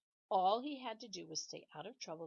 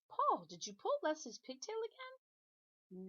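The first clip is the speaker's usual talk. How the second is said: slow, higher teacher's question; stern teacher; 8 semitones higher, 5 dB louder, slower than usual. Acted. Missus Jewls questioning Paul, slow and pointed. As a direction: question him slowly and pointedly.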